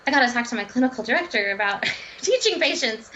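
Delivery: mildly eager, with a laugh breaking in; excited. Retold or imitated. Dietitian recalling wanting to share a discovery at work, mildly excited. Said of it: "you get excited".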